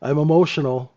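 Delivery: a lightly hammed-up surgeon making excuses; mock rattled surgeon. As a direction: ham up a nervous surgeon.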